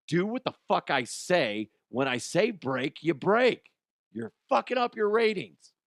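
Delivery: loud, high angry boss yell, re-enacted; retold yelling. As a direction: bellow at the crew, imitating your own outburst. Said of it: "he would hear me yelling at them".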